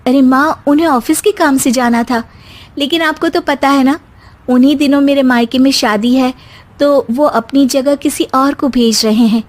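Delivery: lightly voiced young bride, polite and calm; a hint of a sweet daughter-in-law explaining to her mother-in-law; young wife Simmi. (हल्की सी आवाज़ में शांत बहू)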